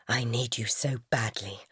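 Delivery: lightly voiced lover. A narrator's reading. Alec in park.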